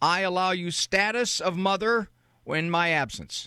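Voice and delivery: joking mock-decree style. Suggesting what a mother could say to her older daughter: facetious mock proclamation. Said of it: "I'm being facetious".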